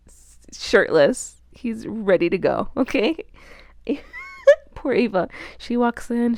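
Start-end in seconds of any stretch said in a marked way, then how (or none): 0.1-1.4 slow scandalized whisper; whispered reveal. Real, not acted. Scandalized reveal of shirtless Apollo.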